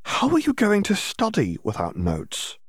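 high, slow incredulous question; stunned someone could study without notes; disbelieving. A narrator's reading. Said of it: "just to make sure she heard him correctly".

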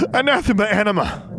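high forceful incantation; commanding spell shout; spell cast out. A narrator's reading. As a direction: fling the spell at the shade. Casting a spell in fight.

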